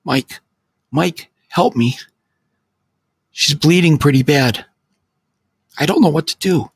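high, tearful voice on the phone; frightened friend crying for help; in tears. Acted. Friend calling from Detroit, high and tearful. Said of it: "he said, now clearly in tears".

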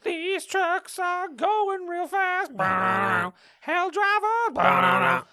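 high, slow hammy trailer voice; movie trailer voice. Pretend. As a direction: stretch every word like a trailer narrator.

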